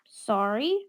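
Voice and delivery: a quick unvoiced whisper of sorry. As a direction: breathe out an apologetic sorry.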